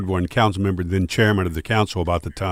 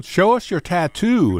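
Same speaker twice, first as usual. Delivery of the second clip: high, slow, drawn-out mimicry; imitated eager request; 10 semitones higher, slower than usual. Woman in the supermarket asking a radio host, imitated eagerly. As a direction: put on a fan's high-pitched, stretched-out plea.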